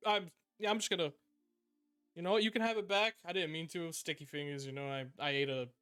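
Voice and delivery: a caught thief stammering excuses; urchin boy. Acted. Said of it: "the urchin boy's just like".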